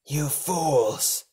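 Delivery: high, forceful roar of scorn. A narrator's reading. Karak roars at monsters from her prison, high and forceful. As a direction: roar it at the fools. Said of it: "Karak roared".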